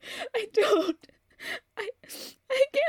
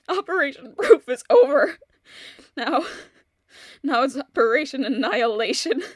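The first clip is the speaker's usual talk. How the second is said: loud, low, declaring war; fierce vow; 4 semitones lower, 7 dB louder than usual. Acted. Widow swearing revenge on her husband's killer, loud and grim. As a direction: announce the new mission with grim force.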